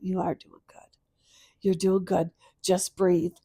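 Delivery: steady yourself gently, evenly; calm self-reassurance. Retold or imitated. Mother answers her late daughter's words, calmly reassuring. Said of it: "I stopped last night and I went".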